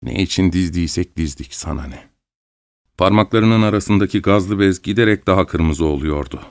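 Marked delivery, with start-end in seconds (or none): 0.0-2.1 grimacing in pain. A narrator's reading. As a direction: lower and much softer, strained by pain. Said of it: "çok acı çekiyormuş gibi buruşturarak". (acı çekerek, alçak sesle)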